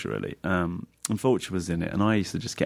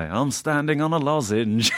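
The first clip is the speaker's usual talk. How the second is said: weird voice imitating a singer; 7 semitones higher than usual. Retold or imitated. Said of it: "this weird voice that was not like a famous singer".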